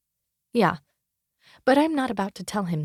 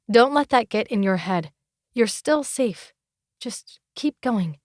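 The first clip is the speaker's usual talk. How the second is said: self-reassuring. Acted. Self-reassurance in the dark woods.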